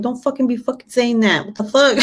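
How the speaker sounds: high-pitched retold reprimand; mock outraged scolding. Mom scolding son for saying the F word, mock outrage.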